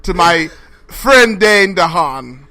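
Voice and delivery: lightly indignant, a bit slow; stern actress demanding respect. Pretend. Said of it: "be serious and be funny and do the voice".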